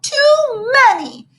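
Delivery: high, slow wail of dismay; howling. Acted. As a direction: howl it like a kid losing candy. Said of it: "he howled".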